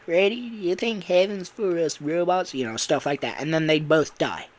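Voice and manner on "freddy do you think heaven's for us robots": higher, mildly plaintive question; acted emotional. Bonnie asking a dying friend, plaintively emotional. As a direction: ask it like a sad dying robot. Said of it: "like, emotional scene".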